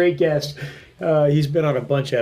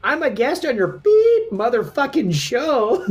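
laughing replay; 8 semitones higher than usual. Retold or imitated. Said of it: "So it goes".

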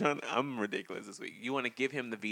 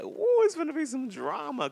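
high, loud excited squeal; 7 dB louder than usual. Retold or imitated. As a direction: gasp it out like the drama is starting. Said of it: "And I was like".

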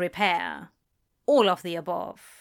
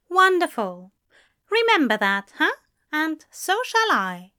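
louder, higher character voice; pleased Aziraphale; 7 semitones higher, 4 dB louder than usual. A narrator's reading. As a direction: sound satisfied with the agreement. Aziraphale pleased by partner's agreement.

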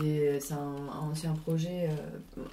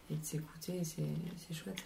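wolfing down food; 11 dB quieter than usual. Real, not acted. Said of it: "tu as le droit de parler la bouche pleine".

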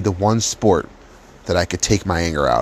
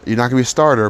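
imitating coach; 6 semitones higher, 5 dB louder, faster than usual. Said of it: "So he said".

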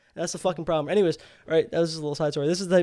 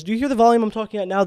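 raised voice, showing how he yelled; demo of his yelling; 3 semitones higher, 6 dB louder, faster than usual. Shown as a demonstration. Showing friends his yell, raised voice. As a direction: show the guys what yelling at her sounds like. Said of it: "This is yelling, by the way".

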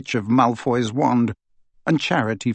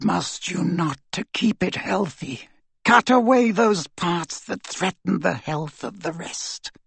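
cold dark lord; 5 semitones higher than usual. Acted. Voldemort lectures Bellatrix.

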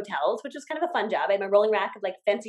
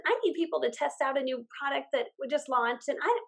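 friendly pitch; 4 semitones higher than usual. Shown as a demonstration. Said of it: "that is way more effective".

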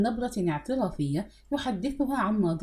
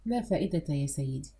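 low, soft, weary mutter; dropped voice, a touch of annoyance; annoyed mutter; 6 semitones lower, 5 dB quieter than usual. A narrator's reading. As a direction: mutter it with contained exasperation. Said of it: "فتمتم عزيز بضيق".

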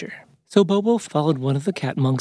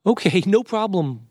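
high, drawn-out cheerful agreement; slow, high, agreeable character voice; smiling; 6 semitones higher, slower than usual. A narrator's reading. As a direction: agree brightly with a smile in the voice.

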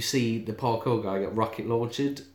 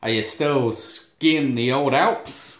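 slow, drawn-out teasing question; lightly voiced Soap; slower than usual. Soap needling an ex-cokehead, slow teasing voice. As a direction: draw out the sly question. Mimicking Soap taunting a reformed addict.

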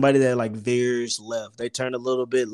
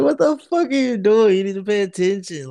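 yelling much higher and louder at the lady; furious high yell; 10 semitones higher, 4 dB louder than usual. Retold or imitated. Out of the car, screaming at the old lady, furious high yell. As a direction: let it rip at the driver who hit you. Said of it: "I was just pissed".

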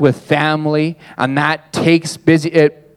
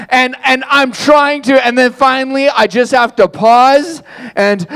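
breathless; 8 semitones higher than usual. Retold or imitated. Retelling being out of breath.

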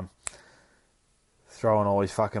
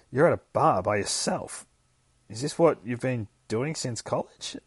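teasing; 4 semitones higher, 3 dB louder than usual. Retold or imitated. Lily teases Tim at bar.

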